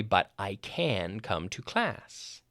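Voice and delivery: CAN drawn out slowly; stress on CAN. Retold or imitated. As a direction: stretch CAN as a full, clear word. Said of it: "To me, it sounded like".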